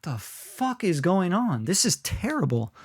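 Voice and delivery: a crowd member complaining about a bad opener, softly disgusted; muttered audience disgust. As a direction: grumble it to the person beside you. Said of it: "And they're like".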